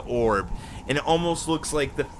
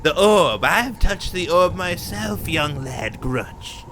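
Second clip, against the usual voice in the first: portentous storyteller; 2 semitones higher, 4 dB quieter than usual. Acted. Character tells of the orb's knowledge.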